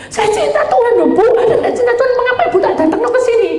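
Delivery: retelling her own teasing challenge to the sick woman, high and laughing; high excited challenge. Retold or imitated. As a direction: press her, half laughing, pitch way up.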